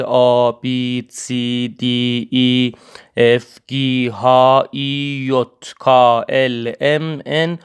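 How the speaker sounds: letters آ to زد named the German way in a measured list; German ABC demo, from آ to زد; German alphabet recital. Shown as a demonstration. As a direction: recite آ through زد with German letter names, each set apart. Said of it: "حروف الفابت رو براتون تلفظ کنم".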